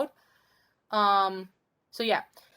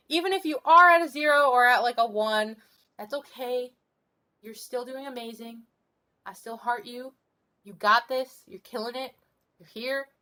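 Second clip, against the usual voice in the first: life coach pep talk. Real, not acted. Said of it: "I should be a life coach".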